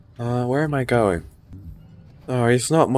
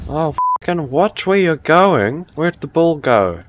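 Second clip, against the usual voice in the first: higher, exasperated telling-off; annoyed outburst; 5 semitones higher, 3 dB louder than usual. Real, not acted. Player to the forklift that hit them, annoyed outburst. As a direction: snap at a careless driver.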